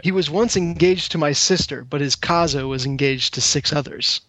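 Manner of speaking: put-on a weak, hammy stab at an Italian accent; lightly put-on Italian accent, barely there. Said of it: "this is aiming for an Italian accent".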